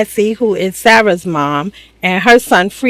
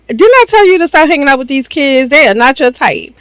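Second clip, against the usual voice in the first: scolding mom; 6 semitones higher than usual. Retold or imitated. Voices strict mom scolding daughter.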